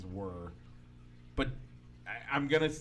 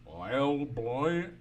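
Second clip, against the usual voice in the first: exaggerated Southern country twang; mock a Southern country singer drawling. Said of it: "he wouldn't have to sound".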